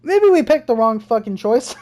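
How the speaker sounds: laughing through the words; nervous laugh. Real, not acted. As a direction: crack up in dismay. Laughing at the bad choice.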